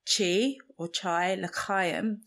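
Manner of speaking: "chi or chai" and "l'chaim" with a throaty Hebrew ch; Hebrew pronunciation. Shown as a demonstration. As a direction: say "chai" and "l'chaim" with a guttural ch, deliberately. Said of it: "Life in Hebrew is".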